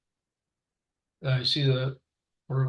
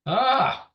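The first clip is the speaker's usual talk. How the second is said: frustrated groan; 11 semitones higher, 4 dB louder than usual. Real, not acted. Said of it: "I'm getting frustrated".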